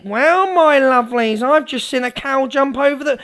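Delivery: lightly caricatured tall-tale announcement; mock streamer impression. Mimicking a streamer feeding followers nonsense, mocking. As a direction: put on a gushing greeting. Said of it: "I'll do an impression of the Evil Army".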